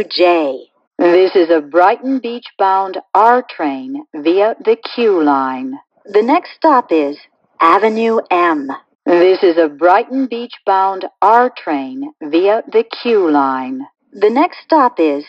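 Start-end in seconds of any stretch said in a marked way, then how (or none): 1.0-5.8 recorded subway announcement stitched from clips; choppy prerecorded train announcement with pasted-in station names; spliced together words. Acted. 9.0-13.9 recorded subway announcement stitched from clips; choppy prerecorded train announcement with pasted-in station names; spliced together words. Acted.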